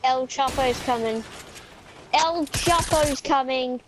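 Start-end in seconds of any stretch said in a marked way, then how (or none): 2.1-3.8 drawn out. Pretend. Same line again, drawn out.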